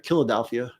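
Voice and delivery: Philadelphia said as KILL-a-delphia; local nickname pronunciation. Shown as a demonstration. Host giving the city's name as said here, wry local pronunciation. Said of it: "or as we say here".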